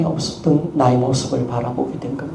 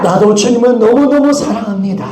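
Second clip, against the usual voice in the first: 너무너무 shouted high and loud; shouted confession; 6 semitones higher, 5 dB louder than usual. Shown as a demonstration. Pastor leading the congregation's shout of love, loud. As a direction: belt out 너무너무 with force. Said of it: "크게 외치며 나갑시다".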